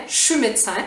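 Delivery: "je suis" shortened to "chu" before "médecin"; Quebec contraction. Shown as a demonstration. Teacher reducing it further for learners, Quebec contraction. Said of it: "puis on dit".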